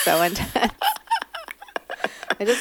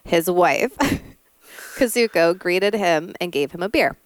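Forensic Files narrator. Shown as a demonstration. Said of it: "Forensic Files".

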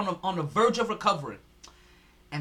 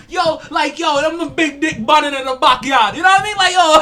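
loud showman hype; mock wrestling entrance; 5 semitones higher, 12 dB louder than usual. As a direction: bellow like a wrestling heel. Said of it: "Vince McMahon shit".

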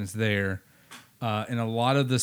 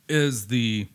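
choking on a drink. Real, not acted. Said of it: "Sorry, choking".

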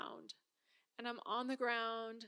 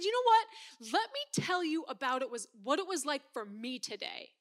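defensive outburst; 2 semitones higher, 5 dB louder than usual. Retold or imitated. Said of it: "And I said".

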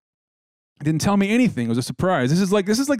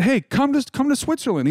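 quoting his brother; 10 semitones higher than usual. Retold or imitated. Brother Mark voiced inviting him.

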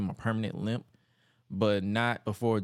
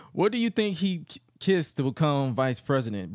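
mock question, starting high; taunting; 3 semitones higher than usual. Bradshaw asking Regal about his promotion, taunting. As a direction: needle him with a pointed question. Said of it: "they continue to taunt him".

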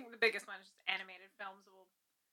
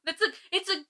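retold furious rant; 6 semitones higher than usual. Ranting at a show that botched the moonflower, exasperated. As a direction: vent at the show's writers, indignant and half laughing. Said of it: "it made me so mad".

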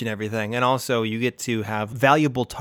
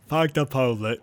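put-on botched Brooklyn accent turning Southern; Forrest Gump. Co-host trying the rioter's line, accidental Forrest Gump. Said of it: "that was Forrest Gump".

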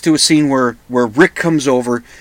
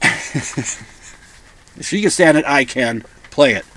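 slow, drawn-out film tough-guy impression; Bogart; slower than usual. Podcaster quoting Rick's line from Casablanca, slow Bogart impression. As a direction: draw the line out in a movie-star impression. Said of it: "I'm not doing a Bogart accent".

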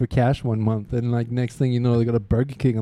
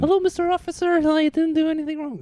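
high, timid little whiny voice; meek and whiny, pleading politely; softy voice. Acted. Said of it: "this little whiny voice".

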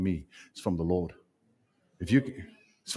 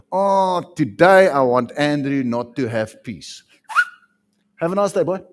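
mocking sarcasm; 7 dB louder than usual. Mocking a capricious God.

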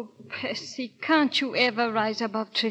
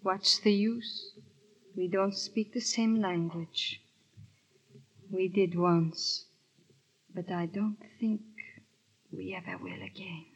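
sad lament. Acted. Wife's sad lament to husband.

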